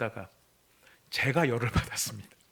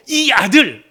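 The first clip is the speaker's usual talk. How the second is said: contemptuous; 9 semitones higher, 15 dB louder, much slower than usual. Acted. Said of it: "이렇게 안 하고".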